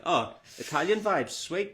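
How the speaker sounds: high, pleased reaction; retold delight. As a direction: imitate a runner pleasantly surprised, pitch climbing. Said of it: "he was like".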